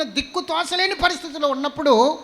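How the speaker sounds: usual speaking voice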